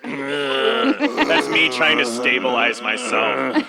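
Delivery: slow words through laughter; laughing. Real, not acted. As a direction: laugh while you say it.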